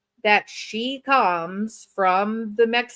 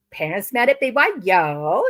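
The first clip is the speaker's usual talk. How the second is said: put-on Valley girl. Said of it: "why I'm talking like a Valley girl".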